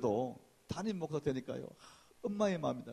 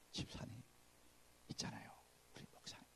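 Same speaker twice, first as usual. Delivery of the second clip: unvoiced secret whisper; whispering to a deacon about the pastor; 5 semitones lower, 20 dB quieter than usual. Shown as a demonstration. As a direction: whisper it like forbidden gossip. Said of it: "말 낮춰야 돼".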